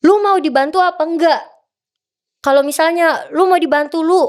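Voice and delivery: mock urging with rising heat; pushy, heated official. NOC official pressuring the athlete to decide, pushy. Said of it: "Jadi kayak ngedesak tuh cepet-cepet".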